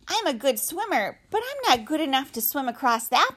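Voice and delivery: put-on a small child asking; young gosling voice. Gosling speaks to mother.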